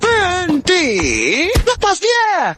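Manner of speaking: high, drawn-out cry to stop; commanding shout. Acted. Ordering an attacker to let someone go, commanding shout. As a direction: call out a high, urgent order.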